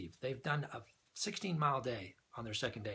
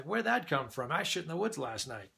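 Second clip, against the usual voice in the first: louder, higher mock-baffled question; mildly indignant, raised voice; baffled outburst; 4 semitones higher, 4 dB louder than usual. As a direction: act out a loud, puzzled joker. Acted indignant question in camp banter.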